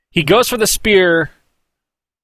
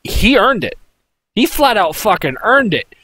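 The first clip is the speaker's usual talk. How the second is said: emphatic; 5 semitones higher than usual. Real, not acted. Fan insisting on a win.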